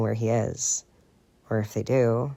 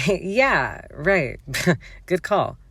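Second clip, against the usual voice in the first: higher, laughing a little out of breath; breathless laugh; 5 semitones higher, 3 dB louder, much slower than usual. Acted. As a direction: caught out, laughing it off. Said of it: "a little breathlessly".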